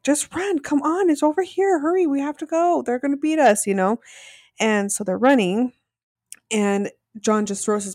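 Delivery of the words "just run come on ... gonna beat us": higher, urgent urging of a teammate; mimicking frantic Victoria. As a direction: push him along, half-mocking the panic. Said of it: "And she's like".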